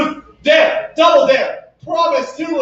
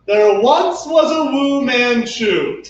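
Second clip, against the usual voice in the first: bouncy limerick lilt; much slower than usual. Pretend. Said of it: "make up a limerick".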